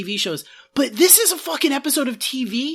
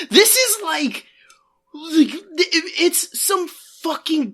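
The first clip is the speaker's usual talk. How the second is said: exasperated; 5 semitones higher, slower than usual. Real, not acted. Outraged about the episode.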